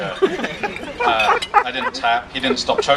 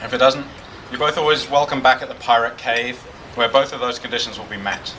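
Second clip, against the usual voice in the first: toast. Acted. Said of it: "This one's actually by me".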